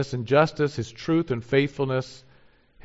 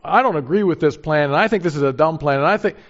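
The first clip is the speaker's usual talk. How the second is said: louder, petulant objection; mock complaint; 2 semitones higher, 5 dB louder than usual. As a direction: whine like someone who thinks God's plan is dumb. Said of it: "And you say".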